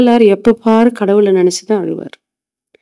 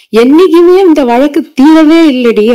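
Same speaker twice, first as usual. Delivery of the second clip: put-on higher, louder voice of the girl telling her friend; the girl complaining; 5 semitones higher, 3 dB louder than usual. Preacher voicing the heroine to her friend, raised complaint. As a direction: play the lovesick girl venting to her friend. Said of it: "அப்படின்றா".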